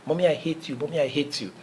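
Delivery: preacher voicing a furious child; angry child shouting. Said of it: "the child started shouting".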